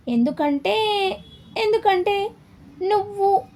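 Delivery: drawn-out words, broken by pauses; hesitant stalling. A narrator's reading. Wife avoiding her husband's eyes as she explains, hesitant stalling. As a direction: stretch each word, pitch climbing on the repeat.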